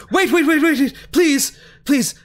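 high, rushed wait-wait with a nervous laugh; frantic pleading. Acted. Cornered doctor pleading with his captors, high and frantic. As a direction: stop them in a panic. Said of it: "and he says".

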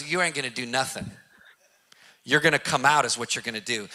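laughing it off, low and amused. Retold or imitated. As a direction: chuckle while dismissing the threat. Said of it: "starts laughing".

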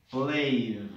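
"Played" drawn out as one syllable ending in d; correct "Played". Shown as a demonstration. Teacher asking students to listen, one-syllable "Played". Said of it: "escucha, abre tus oídos".

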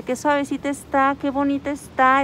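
mildly rapturous retold admiration; enraptured. Driver trying on the gifted mask, mildly enraptured. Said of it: "Estaba la mujer extasiada".

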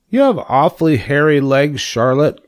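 a hint of a curious young pig; lightly voiced young pig. A narrator's reading.

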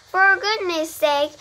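high, loud exasperated bellow; angry bellow. A narrator's reading. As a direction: roar it out, drenched and fed up. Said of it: "bellowed Mister Zuckerman".

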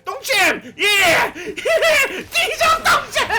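gleeful high shout breaking into laughter. Real, not acted. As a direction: cackle and yell in triumph, drawing it out. 적을 잡으며 환호. (웃음 터뜨리며 길게 외치는 환호)

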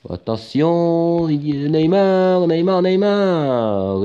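slow, stretched calls of "Neymar"; building commentator call. Acted. Commentator watching Neymar break forward, stretched calls. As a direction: drag the name as the danger builds.

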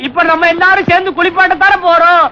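high, hammed-up wail; put-on funeral sobbing; mock crying. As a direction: answer the mourners in a fake lament. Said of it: "ஒவ்வொருத்தரும் அழ ஆரம்பிச்சிருக்கிறாங்க".

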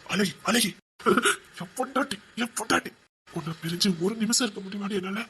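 soft, doting murmur; hushed words to a beloved wife; tender endearment. Acted. Doting on his wife, aside.

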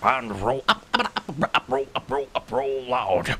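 lightly voiced commander call, stumbling; a hint of a noble leader fumbling the rallying cry; mild Optimus Prime impression; Optimus Prime battle cry. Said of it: "do your Transformers thing".

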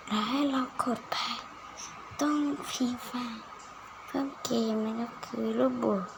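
hushed, barely audible game talk; very quiet voice. Real, not acted. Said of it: "ทุกคนอาจจะสงสัยนะว่าทำไมผมเสียงเบามาก". (เสียงเบามาก)

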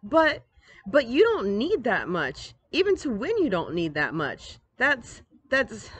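high, sputtering disbelief; flustered protest. Acted. Sister protesting brother bought too much, flustered. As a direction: stammer in exasperation.

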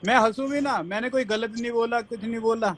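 mocking girlish voice. Mocking her with feminine verbs.

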